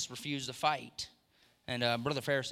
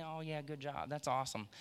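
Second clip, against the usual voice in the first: unimpressed parent; 6 dB quieter than usual. Retold or imitated. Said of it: "they're not really as excited about it".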